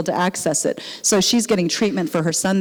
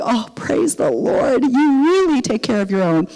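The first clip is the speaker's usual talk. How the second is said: tearful praise; 2 semitones higher than usual. Retold or imitated. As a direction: thank God through remembered tears. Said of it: "And I was just crying".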